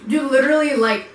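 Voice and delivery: talking while chewing; swallowing food mid-sentence; mouth full. Real, not acted. Seen 0: Middle woman eats at -2, talks animatedly after; speaker uncertain.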